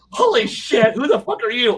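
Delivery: startled villain. Retold or imitated.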